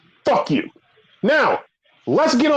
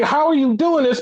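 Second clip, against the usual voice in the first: baffled; 6 semitones higher than usual. Retold or imitated. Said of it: "I'm saying".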